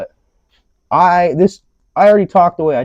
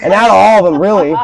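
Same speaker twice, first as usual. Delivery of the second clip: laughing; 7 semitones higher, 8 dB louder, faster than usual. Real, not acted.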